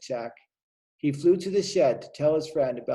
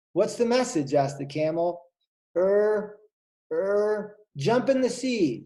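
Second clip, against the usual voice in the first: higher, hesitant; flustered animal voices; 6 semitones higher than usual. Acted. Dolphin fumbling the message to camel, high. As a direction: stammer it high and unsure.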